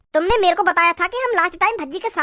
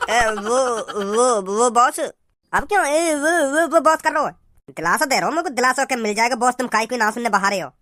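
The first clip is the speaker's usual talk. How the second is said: nervous henchman; 6 semitones lower than usual. Acted. Henchman caught out by boss.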